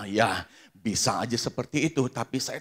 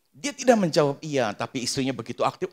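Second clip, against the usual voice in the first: normal talking voice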